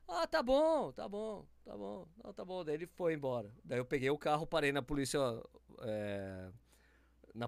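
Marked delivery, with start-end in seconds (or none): 0.1-2.6 hammed-up nervous agreement; mock backing down. Teller backing down to armed man.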